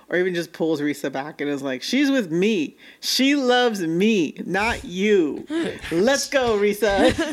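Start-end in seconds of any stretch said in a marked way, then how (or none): 1.8-7.1 mock yell, very slow, drawn-out, raised pitch. Recapping a scene where a man pulls a woman away from another: retelling a yell. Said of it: "he just like yells like".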